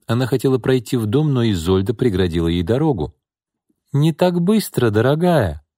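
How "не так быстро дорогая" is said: high, slow, mock-sweet threat; slow menacing aunt. A narrator's reading. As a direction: stretch it out, sugary and menacing. Aunt blocks the door. (угрожающе-сладко, медленно)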